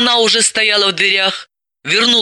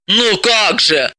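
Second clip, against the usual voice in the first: disappointed; 3 semitones higher, slower than usual. Acted. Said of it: "огорчилась Бойцова".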